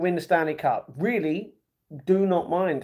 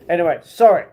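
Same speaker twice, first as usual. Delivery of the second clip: normal talking voice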